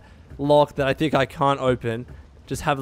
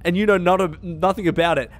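mocking imitation; 4 semitones higher than usual. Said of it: "He was like".

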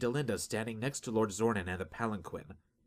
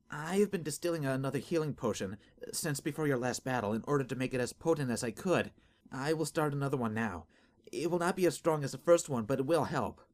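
trembling voice; 5 semitones higher than usual. Acted. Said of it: "her trembling voice betraying her fear".

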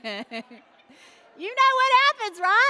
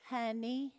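hushed, slow, low reproof; prim church lady; 11 semitones lower, 16 dB quieter, much slower than usual. Retold or imitated. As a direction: correct them very softly and slowly, word by word. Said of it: "a little lady came up to me and she said".

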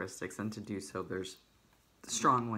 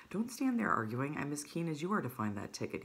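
higher, eager sputter; excited old man; 4 semitones higher than usual. Acted. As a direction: urge him on excitedly. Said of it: "spluttered the old man excitedly".

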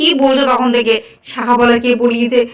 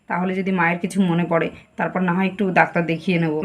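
hushed aside; 4 semitones lower, 5 dB quieter than usual. Acted. Whispering plan behind grandma's back.

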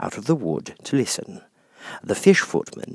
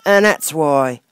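Duchess; 7 semitones higher, 7 dB louder, slower than usual. Acted. Duchess character voice.

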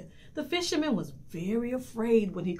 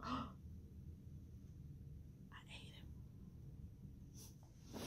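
sly reveal; 4 semitones higher, 24 dB quieter, faster than usual. Acted. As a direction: pause between each word. Whale's punchline.

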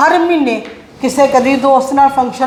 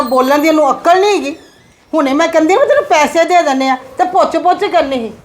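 higher-pitched mother telling off her son; angry scolding; 4 semitones higher than usual. Acted. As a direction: scold him, fed up and raising your pitch. (ਗੁੱਸੇ ਨਾਲ ਝਿੜਕਦੀ ਮਾਂ)

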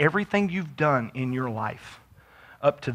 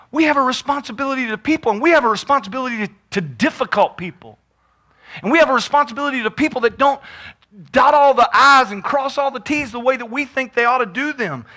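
raised, insistent pulpit voice; higher-pitched, emphatic preaching; 11 semitones higher, 8 dB louder than usual. Real, not acted. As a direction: press the congregation with rising force. Preacher presses the congregation.

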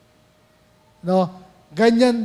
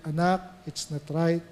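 gentle inner voice; 4 semitones lower, 4 dB quieter than usual. Retold or imitated. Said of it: "sasabihin sa atin ng Holy Spirit".

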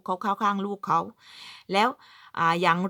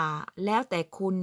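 very slow, soft "แล้วแต่คุณ"; slow drawn-out quote; 4 dB quieter, much slower than usual. Shown as a demonstration. Quoting the phrase to avoid, drawn out slowly. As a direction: stretch out "แล้วแต่คุณ" gently. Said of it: "คำว่า".

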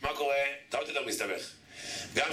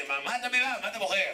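mock scolding; 6 semitones higher than usual. Rebuke voiced to a weeping man.

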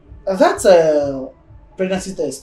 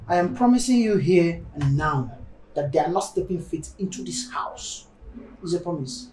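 softening, earnest assurance; sincere promise; 2 semitones lower, 4 dB quieter than usual. Acted. Spouse promising nobody will enter this house, sincere and softening. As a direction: make a vow, ending quietly.

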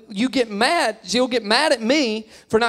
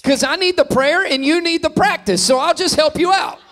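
cheeky reply; 8 semitones higher, 5 dB louder than usual. Retold or imitated. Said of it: "And I was like".

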